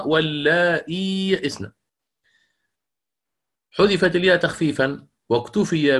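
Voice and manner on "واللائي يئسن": slow recitation of واللائي يئسن with hamza; Hafs reading. Shown as a demonstration. Teacher reciting how Imam Hafs reads it, slowly. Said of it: "الإمام حفص مثلًا يقرأ".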